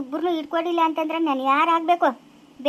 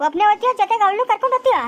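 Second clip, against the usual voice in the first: higher, fast, sarcastic jab; angry taunt; 4 semitones higher, 3 dB louder, faster than usual. Acted. Wife mocking husband about the other woman, angry and fast. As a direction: rattle it off as a scornful challenge.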